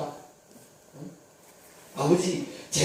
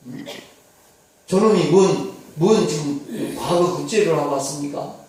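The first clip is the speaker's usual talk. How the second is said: louder, bitter protest to his father; arguing protest; 3 dB louder than usual. Acted. Elder son confronts his father over the feast, louder and bitter. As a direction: argue back, resentful and pointed. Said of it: "따집니다".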